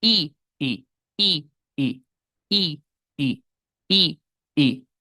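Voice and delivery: repeated short vowel i drilled in the mirror; long English I sound. Shown as a demonstration. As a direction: say i, i, clipped and bright. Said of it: "hagan i". (la i inglesa repetida en ejercicio)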